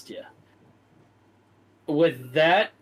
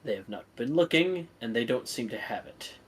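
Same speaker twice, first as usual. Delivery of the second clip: low, soft, deferential report; humble servant; 3 semitones lower, 5 dB quieter than usual. Acted. Servant reporting failure to his lord, low and meek. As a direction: report the bad news meekly.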